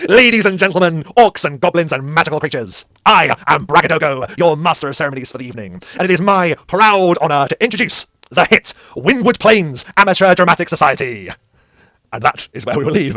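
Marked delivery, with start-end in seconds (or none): 0.1-11.3 loud, high, jubilant showman announcer voice. Voicing a jubilant master of ceremonies opening a show: jubilant master of ceremonies. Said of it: "he throws his arms wide and says".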